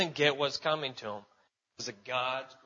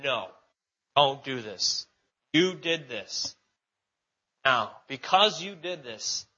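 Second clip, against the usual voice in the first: louder stern God rebuke; 6 dB louder, slower than usual. Acted. Preacher voicing God's rebuke.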